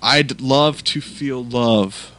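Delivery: slow, drawn-out mocking echo; mocking slow repeat. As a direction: stretch it out to tease. Mocking repeat of guest line.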